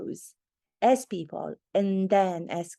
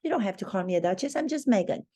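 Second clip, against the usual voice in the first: mock humble Meghan; faster than usual. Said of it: "she never says".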